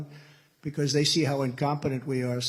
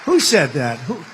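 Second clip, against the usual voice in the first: shouting out; 8 dB louder than usual. Real, not acted. Calling out to the crowd.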